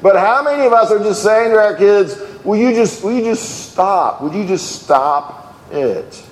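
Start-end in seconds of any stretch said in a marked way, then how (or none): 2.4-6.2 plead, then drag it out wearily; mock parental exasperation. Voices exasperated parents to kids.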